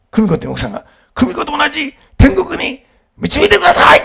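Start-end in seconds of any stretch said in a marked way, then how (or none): 1.1-4.0 high, ringing plea to heaven; booming prayer shout. Retold or imitated. Bereaved husband asking to join his wife in heaven, booming shout. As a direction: pray it out for the whole hall. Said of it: "もうでっかい声で".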